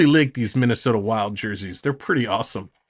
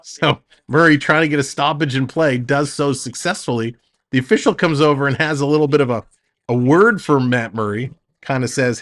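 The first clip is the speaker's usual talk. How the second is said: quick, lively hockey call; play-by-play. Acted. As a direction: call the action as it happens.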